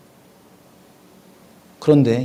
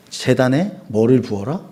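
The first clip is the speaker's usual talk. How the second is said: ordinary talk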